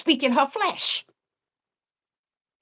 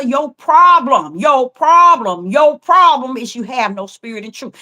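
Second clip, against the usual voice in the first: telling her off; 5 dB louder than usual. Retold or imitated. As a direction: drive the point home like a stern pastor. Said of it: "I wanted so bad to tell her".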